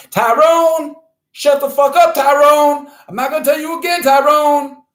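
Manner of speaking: high, loud shouting across the room; mock scolding yell. Host giving his assistant a hard time, high mock scolding yell. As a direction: bawl out your assistant at the top of your voice.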